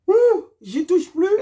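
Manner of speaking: loud slow shaken relief; relieved exclamation. Real, not acted. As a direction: let it out, never again. Relief after painful earring.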